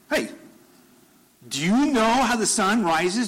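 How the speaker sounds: high, booming divine challenge; God's challenging questions. Retold or imitated. God challenging Job with his questions, commanding. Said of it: "re-gives questions back to Job".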